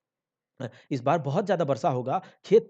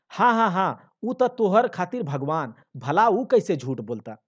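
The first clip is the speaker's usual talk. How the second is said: sarcastic; 3 semitones higher, 5 dB louder than usual. Acted. Wife sneers at the devotee.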